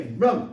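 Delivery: sudden loud "bam" sound effect; imitated crash. Man retelling how he threw the fridge shelf, sudden imitated bang. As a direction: punch out the noise of something hurled.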